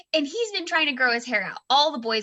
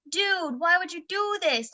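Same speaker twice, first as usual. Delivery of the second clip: higher, pleading exasperation; retold exasperation; 5 semitones higher than usual. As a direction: plead with a kid in disbelief.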